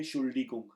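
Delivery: शुल्डिकुंग said as a separate second part after एंट; syllable demo. Shown as a demonstration. Teacher breaks the word into parts for students. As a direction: say शुल्डिकुंग on its own as the second chunk. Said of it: "एंट आप पहले कहेंगे और उसके बाद आप कहेंगे".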